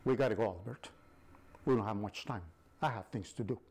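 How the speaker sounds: sinister impatient angel of death; menacing and hurried; evil voice. Acted. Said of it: "the voice is like an evil voice".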